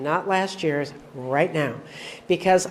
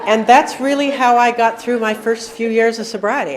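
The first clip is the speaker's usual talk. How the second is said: louder, pressing every word; emphatic; 4 semitones higher, 6 dB louder than usual. Real, not acted. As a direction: say it like a hard-won truth. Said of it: "and I'm not kidding".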